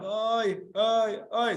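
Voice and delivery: mild oy sighs. Shown as a demonstration. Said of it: "views it as three sides".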